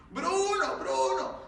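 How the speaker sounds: high urgent call, then a breathy laugh. Retold or imitated. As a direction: call him, half panicked, half laughing. Calling friend who disappeared.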